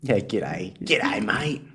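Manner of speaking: hammed-up broad Aussie bloke; broad Aussie accent. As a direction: play up a thick Australian drawl. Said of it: "I just think of you as a Queensland boy".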